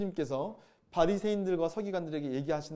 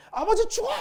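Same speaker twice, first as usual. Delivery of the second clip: much higher, loud bratty yell; mock shout; 8 dB louder than usual. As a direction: yell it like a spoiled son cursing his father. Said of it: "막 이러죠".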